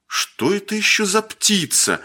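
high-pitched bewildered question; puzzled. A narrator's reading. Grey-haired shooter examining the unknown bird, puzzled. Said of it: "недоумевал Седой".

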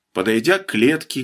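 usual speaking voice

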